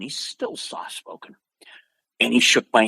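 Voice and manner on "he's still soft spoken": hushed, near-whispered delivery; soft-spoken. Retold or imitated. Storyteller echoing his idol's quiet speech, soft-spoken. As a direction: drop almost to a whisper. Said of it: "He was very soft-spoken".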